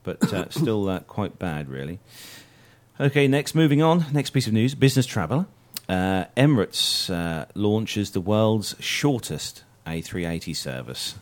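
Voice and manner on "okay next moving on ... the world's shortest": upbeat announcer. Real, not acted. Host introduces next news item.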